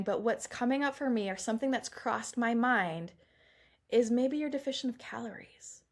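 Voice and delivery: softened, careful suggestion to a client; gentle suggestion. Acted. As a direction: gently float a tentative thought. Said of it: "we say it really gently".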